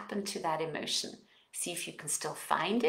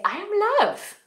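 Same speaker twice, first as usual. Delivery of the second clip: affirmation; 5 semitones higher than usual. Shown as a demonstration.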